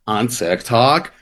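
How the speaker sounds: slow, drawn-out TikTok creator cadence; deliberate, measured influencer-speak; Hoopify. Retold or imitated. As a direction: imitate a TikToker stretching out each phrase. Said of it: "he talks like this".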